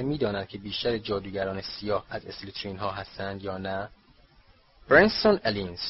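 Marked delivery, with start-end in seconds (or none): 4.9-5.8 raised, loud roll call; calling out a name. A narrator's reading. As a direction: call the next name loudly. Calling names from a list.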